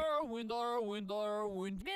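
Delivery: reversed audio clip; the sung line heard in reverse; played backwards. Shown as a demonstration. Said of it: "let's just reverse that clip".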